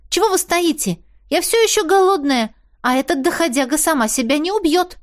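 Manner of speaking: high, pushy and impatient; impatient urging. A narrator's reading. Girl urging the hesitant Koschei to kill the fawn, impatient. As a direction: hurry him up, you're starving. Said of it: "я нетерпеливо напомнила ему".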